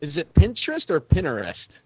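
"Pinterest" first with its t, then with the t dropped; contrasting pronunciations. Shown as a demonstration. Co-host asking how to say a website, two contrasting pronunciations of "Pinterest". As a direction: say "Pinterest" two ways, crisp t then silent t. Asks which pronunciation is right.

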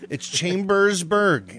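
"Chambersburg" stretched out slowly, syllable by syllable; drawn-out, effortful "Chambersburg"; labored pronunciation. Shown as a demonstration. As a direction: labor through "Chambersburg" as a tongue-twister. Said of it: "It's really hard to say".

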